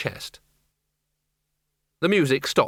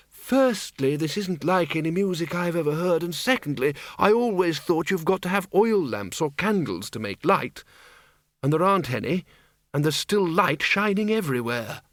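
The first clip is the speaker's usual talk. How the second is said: higher-pitched character voice for Windle; lightly voiced, higher-pitched Windle, arguing point by point; Windle reasoning; 5 semitones higher than usual. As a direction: reason it through in a slightly raised voice.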